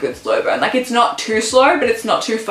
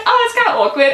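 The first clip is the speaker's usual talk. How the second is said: put-on way higher, squeaky embarrassed girl; 14 semitones higher, faster than usual. Zoe flustered after walking in on him, high squeak. Girl voiced in book summary.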